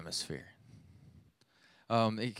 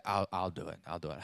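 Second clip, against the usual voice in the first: tired wife; 6 semitones lower, 6 dB quieter than usual. Retold or imitated. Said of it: "She said".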